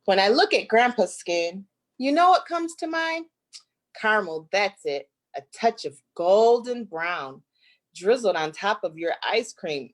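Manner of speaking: lively, sing-song picture book reading; reading to children. Acted. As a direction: read it like a rhyming story to little kids. Reads picture book aloud.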